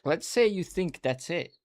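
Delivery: high, mocking sing-song tease; mocking taunt. Teasing viewers who think Russian is simple, a high mock taunt.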